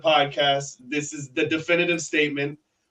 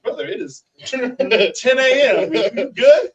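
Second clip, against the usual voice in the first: high, slow, laughing disbelief; high-pitched mock concern about a morning beer; mock concerned local; 9 semitones higher, 7 dB louder, slower than usual. Locals questioning a beer at breakfast, high, mock-concerned. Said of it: "they're like, 'Brother".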